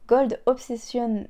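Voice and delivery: slow, careful Gold Obsession in a French speaker's English accent; clumsy English accent. Real, not acted. Reading out the shade name to viewers, awkward English accent. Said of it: "mon accent est vraiment pourri".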